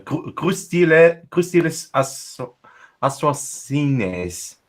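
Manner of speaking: slow halting French, syllable by syllable; careful French attempt. Shown as a demonstration. Gamer friend slowly sounding out a French phrase. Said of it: "I at least can try to pronounce it".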